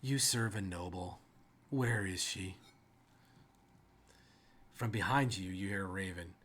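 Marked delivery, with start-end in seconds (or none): 0.0-2.6 slow, scornful orders to an inferior; commanding rider. Acted. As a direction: start forceful, then drop to a cool, measured put-down. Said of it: "in a very feminine voice".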